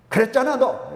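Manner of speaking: angry mother. Retold or imitated. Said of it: "화가 나서 막".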